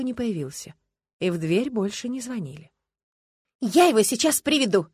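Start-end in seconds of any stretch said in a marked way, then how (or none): 3.6-4.9 resolutely. A narrator's reading. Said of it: "решительно сказала Люба и встала".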